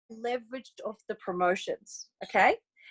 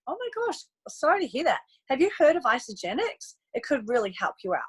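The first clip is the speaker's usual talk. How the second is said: sympathetic sales line; 2 semitones higher than usual. Retold or imitated. Recruiter to tired friend, gushing sympathy. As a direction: sound sorry, then slide into the product. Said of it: "The line I use all the time".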